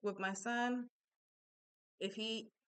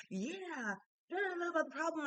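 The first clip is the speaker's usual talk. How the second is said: mimicking her son; 9 semitones higher, faster than usual. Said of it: "he'll come back to the problem and be like".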